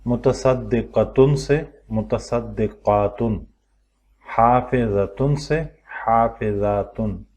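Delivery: slow, drawn-out drill of singular and plural pairs; patient teacher drawing out each plural ending; stretched slowly. Shown as a demonstration. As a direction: stretch each word so every sound lands. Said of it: "اب یہاں پہ کھچنا ہے تھوڑا سا".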